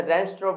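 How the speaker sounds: "रेस्टोरेंट" as res-tro, silent final nt; preferred pronunciation. Shown as a demonstration. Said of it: "बोले तो ज़्यादा अच्छा लगेगा". ("रेस्टोरेंट" को 'रेस्ट्रो' बोलें)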